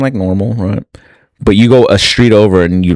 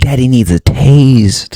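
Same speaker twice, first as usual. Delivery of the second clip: mock pleading, pitched higher; 4 semitones higher than usual. Imitating a cracked-out buyer begging for drugs on credit: imitating a cracked-out person begging. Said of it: "some of them are pretty cracked out, and they're just like".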